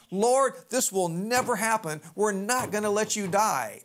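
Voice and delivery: acted-out emphatic refusal; vehement objection. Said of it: "Peter vehemently, strongly objects".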